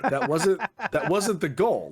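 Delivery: retold exasperation with a laugh; laughing protest. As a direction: protest while laughing at yourself. Retold dismay amid laughter.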